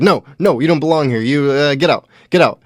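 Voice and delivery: retold angry yelling. Owner refusing the homeless man, mock angry yelling. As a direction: shove him out with your voice. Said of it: "And the guy's like".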